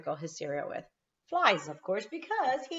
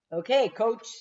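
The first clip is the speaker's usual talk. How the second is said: higher, louder eager okay; eager reply; 5 semitones higher, 6 dB louder than usual. A narrator's reading. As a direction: answer eagerly. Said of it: "said Froggy".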